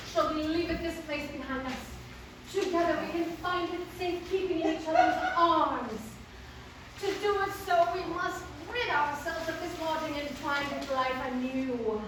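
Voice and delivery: lightly acted mock-archaic heroine; Selina, pleading lover. Selina urging her lover to leave London, lightly theatrical. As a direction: read it as an earnest stage heroine. Reads Selina's part from the play.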